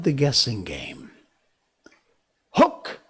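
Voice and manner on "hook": high loud call. Acted. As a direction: call across the water. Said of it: "he called".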